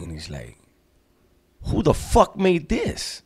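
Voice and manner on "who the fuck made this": very high, drawn-out indignant demand; pissed disbelief. Retold or imitated. Inmate confronting the homie over a homemade piece, pissed. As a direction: imitate someone outraged by shoddy work. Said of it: "Night Owl was pissed".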